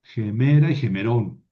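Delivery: gemera stressed on ME, gemerón on the final RON; accent demonstration. Shown as a demonstration. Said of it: "el acento no se mueve".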